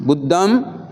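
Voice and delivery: "बुद्धं" ending in a nasal ng; "बुद्धं" with a final nasal ng and no m; anusvara ending. Shown as a demonstration. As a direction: close "बुद्धं" with a nasal, not an m. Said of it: "बिंदी बोलता है".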